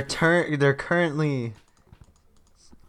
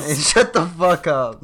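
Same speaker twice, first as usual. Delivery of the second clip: put-on Mexican accent; 4 semitones higher, 6 dB louder than usual. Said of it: "thick Mexican accent".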